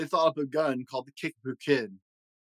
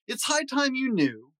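put-on a raised, earnest old grandfather voice; grandfather speaking; 11 semitones higher than usual. Grandfather warning his grandson, raised and earnest. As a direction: lean in like a grandpa sharing a secret. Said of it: "Then my grandfather said".

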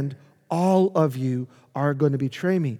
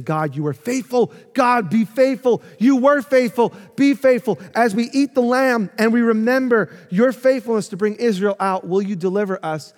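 pleading worshippers; 5 semitones higher, 4 dB louder than usual. Retold or imitated. Voicing the pleading people.

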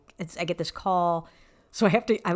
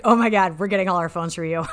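excited burst; 6 dB louder than usual. Retold or imitated. Attorney suddenly thrilled about the phones, excited outburst. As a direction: blurt it out, thrilled.

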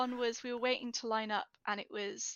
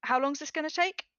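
bored impatient whine; 7 semitones higher, 4 dB louder than usual. Retold or imitated. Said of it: "someone's like".

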